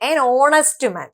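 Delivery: an honest man said very slowly, h silent; slow demonstration. Shown as a demonstration. Teacher slowly models the silent h. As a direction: drag it out so the o sound is clear. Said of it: "ഹ silent ആണ് ട്ടോ".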